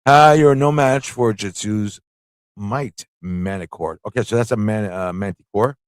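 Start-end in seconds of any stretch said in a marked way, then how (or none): 0.1-4.0 Al Pacino impression. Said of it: "Al Pacino".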